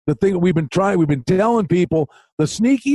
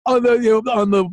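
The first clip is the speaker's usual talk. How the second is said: pushy Twitter fan; 7 semitones higher than usual. Retold or imitated. Twitter fans nag the host for his pick, high and whiny. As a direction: whine it like a needy follower. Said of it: "people on Twitter going".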